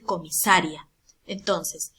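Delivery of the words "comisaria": "comisaria" with ria run into one syllable; mispronounced "comisaria", no break between i and a; wrong stress, diphthong. Shown as a demonstration. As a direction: say "comisaria" stressed on SA, ending -rya. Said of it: "Va a decir comisaria".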